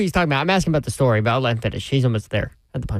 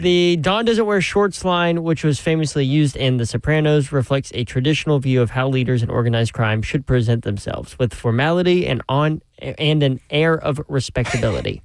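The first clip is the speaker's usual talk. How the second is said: flight attendant read. Real, not acted. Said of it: "giving pre-flight speech on Southwest".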